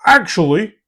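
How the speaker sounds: pedantic actually. Retold or imitated. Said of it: "every other sentence starts with".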